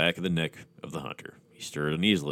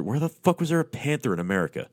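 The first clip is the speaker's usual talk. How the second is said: incredulous aside; 9 semitones higher than usual. Real, not acted. Reader mocking the story's logic.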